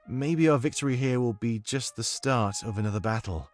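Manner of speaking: put-on soft British accent, non-rhotic and measured; Domik's comforting accent. Domik confides in the monarch about the Triumvirate, comforting British accent. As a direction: reflective British-accented companion, phrase by phrase. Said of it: "I need your comforting accent right now".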